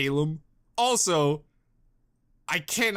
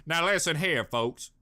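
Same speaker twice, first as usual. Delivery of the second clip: put-on light Southern accent; a hint of Southern farmer; southern drawl. The speaker addressing the folks with a light Southern drawl. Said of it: "You just got my southern drawl".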